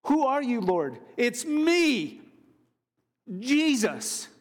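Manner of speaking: emphatic acted dialogue, voice lifted high; dramatized exchange. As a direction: act out a startling revelation, pitched well up. Preacher acts out the exchange dramatically.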